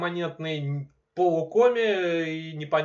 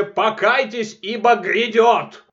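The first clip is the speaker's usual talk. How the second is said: mock biblical prophet; 6 semitones higher, 8 dB louder, slower than usual. Doomsday proclamation about Warhammer.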